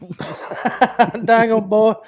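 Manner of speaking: slow, high country drawl; old farmer. Pretend.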